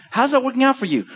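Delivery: a light mock challenge; wry question. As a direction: tease him with the question. Voicing Jesus' wry question.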